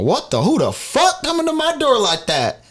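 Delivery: high-pitched retold outrage; acted indignant yelling; outraged demand. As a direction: erupt at whoever is pounding. Retelling anger at pounding on door.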